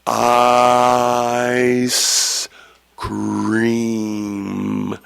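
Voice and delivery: ice cream stretched out extremely slowly; exaggerated slow. Shown as a demonstration. Pronouncer showing spellers what he can't do, absurdly drawn-out ice cream. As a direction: draw out each word of ice cream on a long, steady note. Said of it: "Could you say it a lot slower?".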